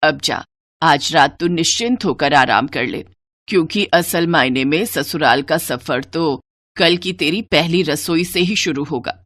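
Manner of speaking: kindly elder instructing the new bride; mother-in-law. Acted. (हल्की आवाज़ में समझाती सास)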